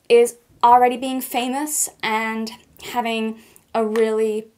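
mock American accent as Kendall Jenner, valley-girl vibe; terrible American accent. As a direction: do a hammed-up American model voice. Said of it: "my terrible American accent".

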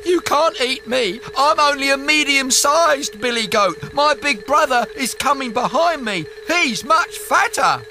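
high quick goat voice. Acted. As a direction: bargain nervously as a goat. Goat bargains with troll.

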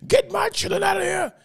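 retold shout. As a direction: belt it out like she's losing control.

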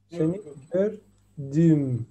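each syllable drawn out slowly; slow model phrase. Shown as a demonstration. Teacher modeling Turkish for a student, slowly spelled out. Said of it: "Muy bien".

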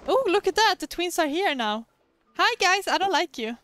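a character teasing the twins; excited character greeting. Acted. A hint of a cheeky kid voice.

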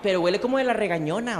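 lightly voiced chatty old lady; a hint of a gossiping little old woman, laughing; old lady sniffing the street air. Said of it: "como esas viejitas que van caminando".

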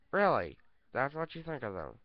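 the puppet pressing harder; insistent puppet demanding an answer; Mister Chicken voice. Pretend. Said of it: "This is Mister Chicken".

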